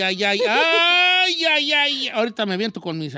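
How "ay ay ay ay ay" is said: hammed-up sobbing lament; mock crying. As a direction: wail "ay" in exaggerated grief. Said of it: "pasa usted el llanto".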